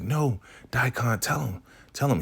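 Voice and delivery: high-pitched mock urging; imitated pleading woman. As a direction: urge him in a put-on high voice. Voicing the woman urging Daikon.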